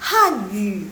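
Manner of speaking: Han Yu with Yu dipping briefly; half third tone. Shown as a demonstration. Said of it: "nadanya dibaca setengah".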